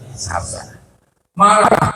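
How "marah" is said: sudden exclamation. Acted. Preacher answers with sudden exclamation.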